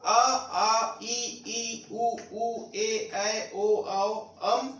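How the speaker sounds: each vowel from अ to अम sounded on its own; chant-like list of Hindi vowels, अ through अम; Hindi vowel sounds. Shown as a demonstration. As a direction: recite अ, आ, ई, उ, ऊ as separate pure vowels. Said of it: "अब vowel Hindi में क्या है?".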